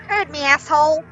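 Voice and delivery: high, loud insulting parrot; rude parrot. Acted. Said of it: "And the parrot says".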